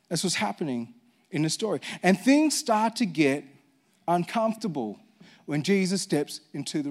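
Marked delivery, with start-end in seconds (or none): 0.1-1.8 quieter repeat. Shown as a demonstration. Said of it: "That's what's happening in this story".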